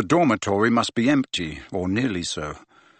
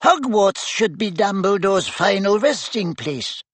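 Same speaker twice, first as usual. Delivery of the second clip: high, squeaky little professor; tiny wizard squeaking up at colleagues; 9 semitones higher than usual. A narrator's reading. Tiny professor urging the staff, high and squeaky. Flitwick voice.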